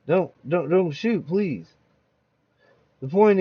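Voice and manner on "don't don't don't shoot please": begging victim. Acted. Robbery victim begs.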